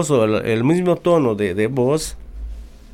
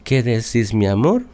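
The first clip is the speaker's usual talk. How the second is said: sweet tone; 3 semitones lower than usual. Retold or imitated. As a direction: ask it gently, like a sweetheart. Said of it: "cambia el tono de la voz".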